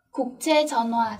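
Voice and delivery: slow, careful Korean model word; slow model reading. Shown as a demonstration. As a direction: spell out each syllable slowly for learners.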